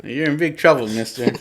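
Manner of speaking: a hint of a sitcom kid wagging her finger; Michelle Tanner. Wanda scolding Ultron like a sitcom kid. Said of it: "She sounds like Michelle Tanner".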